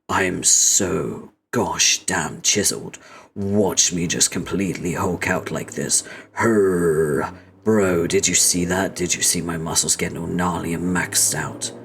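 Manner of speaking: a hint of a pompous muscle-bound brag; Equius. Voicing Equius showing off his muscles to Dirk, mild boastful voice. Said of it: "I think I'm gonna do Equius's voice".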